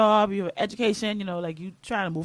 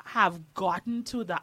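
biting tongue; 3 dB quieter than usual. Real, not acted. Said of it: "I'm choosing my words very carefully".

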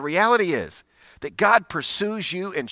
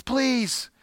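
put-on pleading girl; 9 semitones higher than usual. Girl's final plea.

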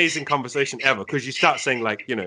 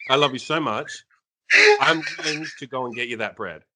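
mock serious. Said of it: "so serious".

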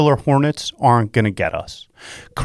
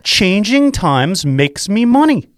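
slow and higher, building energy; rousing mantra; 7 semitones higher, slower than usual. Shown as a demonstration. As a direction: pump up the room with the slogan. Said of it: "One more time".

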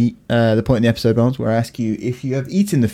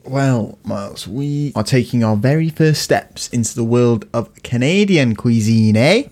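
slow, mock Canadian drawl ending in eh; a light Canadian accent with a tagged-on eh; slower than usual. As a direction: put on a hammed-up Canadian voice. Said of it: "hard, hard accent".

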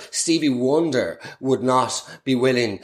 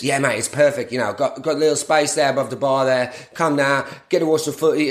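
imitating Chezza. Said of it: "Chezza reply".

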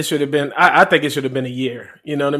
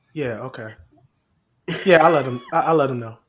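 subdued, pretend phone chat; pretend phone call; 4 semitones lower, 7 dB quieter than usual. Co-host fakes a phone call during his introduction, pretend phone call. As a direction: play taking a call, softly. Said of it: "T O with the phone call here".

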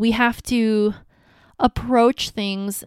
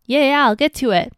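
louder, higher, quick annoyed yeah yeah; mock husband losing patience; irritated brush-off; 4 semitones higher, 5 dB louder, faster than usual. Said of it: "He'll be like".

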